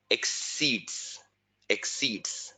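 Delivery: "exceeds" set apart by pauses, said twice; single out "exceeds", softly and deliberately; emphasis on exceeds. Shown as a demonstration. Teacher flags the key exam word for students, emphasizing "exceeds". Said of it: "please emphasize on the word".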